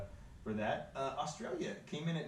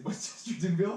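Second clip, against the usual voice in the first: high, louder laughing query with a rising end on "Chestertonville"; disbelieving question; 7 semitones higher, 4 dB louder than usual. Real, not acted. Host repeats a made-up town name, laughing and incredulous. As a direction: ask it back, amused and unsure.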